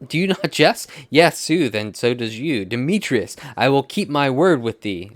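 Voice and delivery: a mild theatrical yell at a rival; acted yelling. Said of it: "So Lysander is now yelling at Demetrius".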